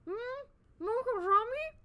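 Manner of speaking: put-on high, small child's reply; little girl voice. Sally answering her mother in a high little-girl voice. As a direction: answer sweetly like an eight-year-old.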